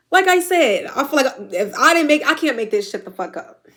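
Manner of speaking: pushing through tears, voice lifted; emotional, near tears. Real, not acted. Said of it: "I'm a crybaby".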